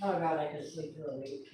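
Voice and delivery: soft weary aside; tired sigh. Real, not acted. Reader muttering to herself about being tired, soft. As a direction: let it drop like you're exhausted.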